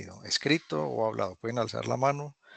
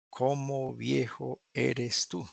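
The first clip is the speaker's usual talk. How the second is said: slow literal read; much slower than usual. Shown as a demonstration. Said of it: "No la traduzcan".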